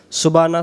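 সুবানা clipped, h dropped; mispronounced সুবানা; wrong pronunciation. Shown as a demonstration. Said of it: "সুবানা যেন নামাজের সানার মধ্যে যেন না আসে".

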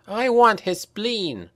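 high, slow vengeful demand; bare your teeth and claim his spleen; vengeful cry. A narrator's reading. Franka lunging at her enemy.

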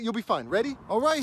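ordinary talk, nothing marked

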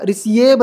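रिसीव misread as "ri-si-yeb"; wrong pronunciation. Shown as a demonstration. Teacher showing students how not to read it, mispronounced रिसीव. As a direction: split रिसीव into ri-si-e-b. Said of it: "रिसीव नहीं पढ़ेंगे".

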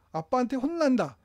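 half-mock menacing warning; threatening father. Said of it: "협박하는 거잖아요". (협박하는 아빠 말투)

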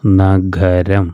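നഗരം drawn out very slowly, syllable by syllable; very slow reading. Shown as a demonstration. Teacher repeats നഗരം very slowly for beginners. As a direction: spell out നഗരം slowly so pupils hear the ഗ. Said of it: "രണ്ടാമത്തത്".

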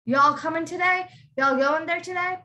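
lightly Southern y'all, lifted pitch; Southern-style question with an easy y'all; Southern accent. Shown as a demonstration. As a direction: demo a casual Southern invitation. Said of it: "they all say y'all a lot".

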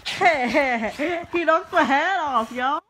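loud, high, amused squeal; laughing outcry. Real, not acted. Vlogger whose dog knocked the hat off, laughing outcry.

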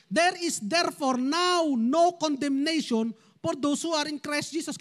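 slow, deliberate Bible reading; scripture reading. Acted. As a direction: read the verse out measured and clear.

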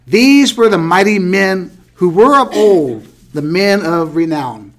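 measured Bible-reading voice; scripture reading. Acted. Teacher reading Genesis to the class, measured scripture reading. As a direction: read the verses aloud, deliberately phrased.

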